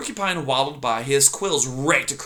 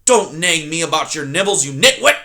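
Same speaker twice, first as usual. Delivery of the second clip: bellowing porcupine; 3 semitones higher, 5 dB louder than usual. Acted. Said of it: "Aerith bellowed".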